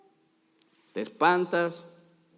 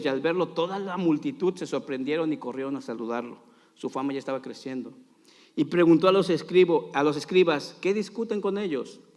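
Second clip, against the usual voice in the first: dramatic Bible reading; 4 dB louder than usual. A narrator's reading. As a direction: narrate scripture with theatrical emphasis. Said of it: "soy bien dramático".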